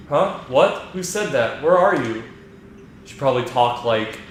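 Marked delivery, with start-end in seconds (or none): 0.1-2.2 higher, startled princess voice. Acted. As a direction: react surprised to a hidden voice. Peach startled by voice.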